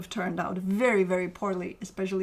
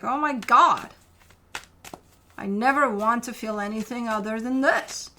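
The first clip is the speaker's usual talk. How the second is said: acted amazement; 5 dB louder than usual. Reader voices client finally connecting to their heart, acted amazement. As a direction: play overwhelmed delight, easing after the outburst. Voicing the querent's elated reaction.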